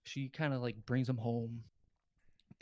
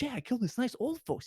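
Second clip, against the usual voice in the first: much higher-pitched mock confession voice; gloating killer impression; 11 semitones higher than usual. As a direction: play a killer casually recalling it, pitched way up. Confessing killer gloats in retold film scene.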